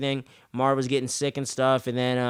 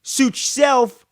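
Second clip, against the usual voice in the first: dismissive shrug; 8 semitones higher, 7 dB louder, much slower than usual. Retold or imitated. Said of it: "he's like".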